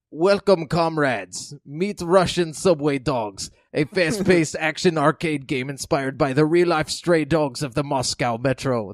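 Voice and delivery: a weak, hammed-up Russian accent that slips away; badly faked Russian accent. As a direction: read it as a failed Russian accent. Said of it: "I can't do a Russian accent, but it's like".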